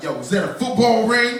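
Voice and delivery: put-on nosy kid calling out; curious kid. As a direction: play the eager kid asking loudly. Kid in library questions him.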